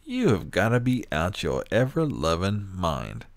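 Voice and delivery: loud, incredulous rant with every word hammered; outraged shout. Real, not acted. Ranting at fast-food workers, a loud outraged shout. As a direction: blast it like you can't believe anyone would ask.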